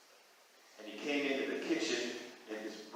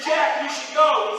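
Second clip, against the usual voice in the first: high urging bird; 11 semitones higher, 11 dB louder than usual. Acted.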